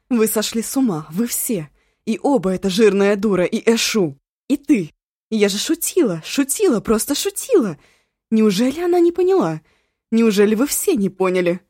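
high, loud frantic screaming; piercing scream. A narrator's reading. Ashun screaming at them all that she was joking, frantic. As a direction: shriek it out in desperation. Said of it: "пронзительно закричала".

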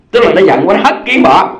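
normal talking voice

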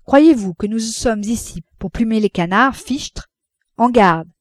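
indignation plus forte, qui éclate sur « En garde! »; indigné. A narrator's reading. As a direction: reproche outré, la voix monte. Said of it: "Le citoyen s'indigna". (colère indignée qui s'emporte)

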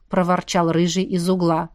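ordinary delivery

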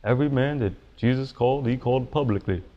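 mock southern preacher accent; southern-accented crusade preacher impression; Billy Graham. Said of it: "with that southern accent".

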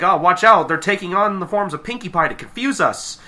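urgent mock warning to the team; Twilight warning. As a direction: call out a mock alarm. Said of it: "Twilight is just like".

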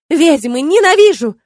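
high, loud furious shout; hateful shout. A narrator's reading. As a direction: yell it down the corridor. Shout echoes down corridor.

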